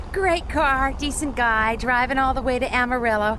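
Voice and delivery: loud, eager hitchhiker delight; excited. Acted. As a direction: gush over the lucky ride. Hitchhiker enthusing over ride.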